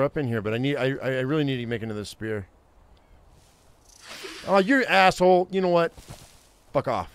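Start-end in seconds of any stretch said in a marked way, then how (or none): 4.5-7.1 angry outburst. Real, not acted. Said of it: "I am so mad right now".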